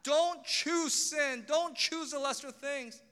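God begging sinners, slow and pleading. Acted. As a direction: beg them not to choose it, slowly and urgently. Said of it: "He's sitting here begging, saying".

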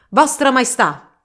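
slow, loud and reverent; reverent exclamation. Acted. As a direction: kneel and hail the king solemnly. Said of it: "esclamò Don Chisciotte".

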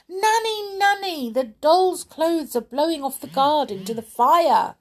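very high, alarmed call; little girl's cry. Acted. Little girl warns Nanny of burning clothes, crying out. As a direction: call out urgently as a small girl. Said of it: "cried the little girl".

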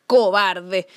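shouting bear. Acted. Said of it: "gritó el oso".

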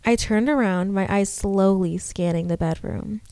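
steady storytelling read; story narration. A narrator's reading. Reads horror story aloud.

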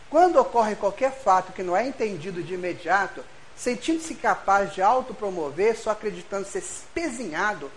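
measured, formal reading voice; reading a passage aloud. Acted. Speaker reads a book passage to the audience, formal reading. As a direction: read the quoted text like a lecture extract.

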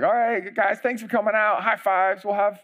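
laid-back race host welcoming runners; mock friendly race host. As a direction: play a chill fun-run organizer. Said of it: "It's not like".

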